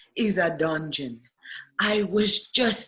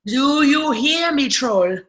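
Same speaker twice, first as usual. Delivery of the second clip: louder, demanding call across the cell; 6 semitones higher, 5 dB louder than usual. Acted. Prisoner calling the troll guard, demanding and loud.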